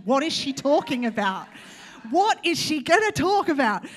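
lightly voiced curious listener; mock audience wondering. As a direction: play the puzzled crowd. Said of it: "it was meant to be this, like, anticipation".

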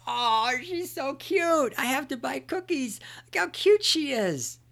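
high, slow, gushing voice; smitten buyer. Retold or imitated. Buyer won over by the Girl Scout, slow gushing high voice. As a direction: melt over the cute girl. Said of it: "And you'd be like".

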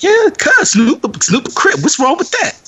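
high-pitched, challenging mock retort; confrontational loud talker. Audience member challenging another over a rapper, mock confrontational. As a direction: imitate a moviegoer spoiling for an argument. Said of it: "they got the loud talking".

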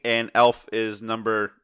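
loud, slow announcer build-up; game show host. Pretend. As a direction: hype the countdown like TV. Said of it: "said it like a game show host".

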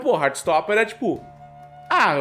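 ordinary talk, nothing marked

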